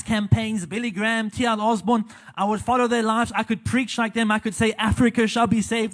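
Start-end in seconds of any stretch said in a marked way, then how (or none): 4.7-5.9 put-on light German accent, preacher's proclamation; hint of a German evangelist accent; Reinhard Bonnke German accent. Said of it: "like Reinhard in the German accent".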